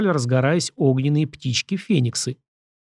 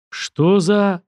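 breathless shock; stunned gasp; 6 semitones higher than usual. Acted. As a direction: gasp it out in disbelief. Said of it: "ошарашенно выдохнул я".

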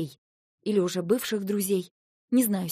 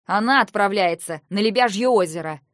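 louder angry counter; angry retort; 6 dB louder than usual. Acted. Brother angrily contradicting the husband, loud. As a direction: snap back angrily. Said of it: "разозлился Люк".

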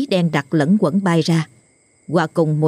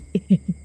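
sob; 3 semitones higher than usual. Acted. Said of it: "khóc nấc".

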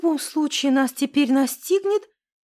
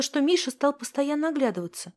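plain reading voice

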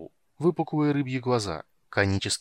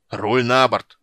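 loud roared command; growled order; 9 dB louder, slower than usual. A narrator's reading. Captain shoves helmsman aside, roared command. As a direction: roar it at the helmsman. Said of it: "зарычал Пудуарак".

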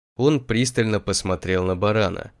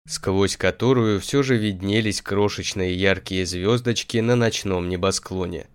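plain reading voice

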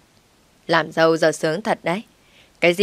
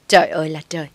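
louder lament of "Trời ơi là trời"; wailing cry; 4 dB louder, faster than usual. Acted. Mother-in-law wailing at her son who talks back. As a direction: wail "Trời ơi là trời" to the heavens. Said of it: "Bà Tâm lại gào lên".

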